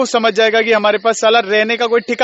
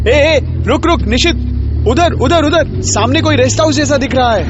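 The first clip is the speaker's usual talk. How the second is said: higher-pitched excited alert; urgent calling out; 4 semitones higher than usual. Acted. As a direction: call to the driver to stop, urgently. Spots a rest house, calls driver.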